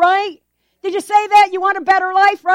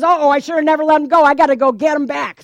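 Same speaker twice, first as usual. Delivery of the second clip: panicky Pharaoh; 4 dB louder, faster than usual. Acted. Preacher voices panicked Pharaoh.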